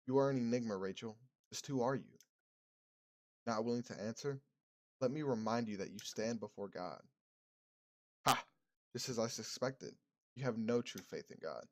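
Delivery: soft, measured priest interrogating; a quiet, probing clergyman; reverend's calm questioning. Acted.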